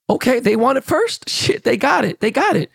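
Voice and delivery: high-pitched mock delight; imitated happy excitement. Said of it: "He was happy about it".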